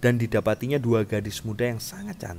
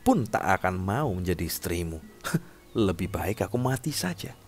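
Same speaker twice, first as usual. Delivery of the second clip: somewhat raised, emphatic princess voice; defiant captive princess; 3 semitones higher, 5 dB louder than usual. Acted. Captive princess sets terms to the king who wants her, defiant. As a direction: press the demand firmly, as a captive princess.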